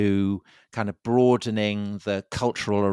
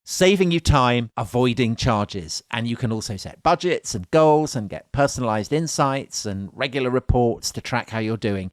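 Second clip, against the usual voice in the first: upbeat sponsor read. Acted. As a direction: sell it like a radio ad. Host ad read.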